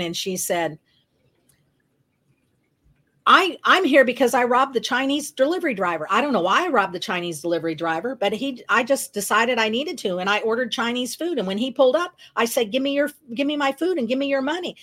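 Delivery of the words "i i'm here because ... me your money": rapid-fire chatter. Retold or imitated. New cellmate explaining her arrest to her roommate, rapid-fire chatter. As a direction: imitate a roommate rattling on, pitched a little up. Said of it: "she's just talking a mile a minute".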